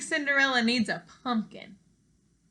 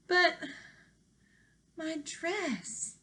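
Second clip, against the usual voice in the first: worried Cinderella; 7 semitones higher, 4 dB quieter, much slower than usual. Acted. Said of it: "said Cinderella".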